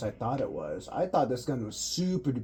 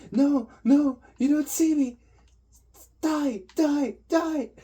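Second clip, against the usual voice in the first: much higher, squeaky teasing taunt; high mock taunt; 13 semitones higher, 7 dB louder, slower than usual. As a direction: taunt him in a silly high voice. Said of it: "I basically said".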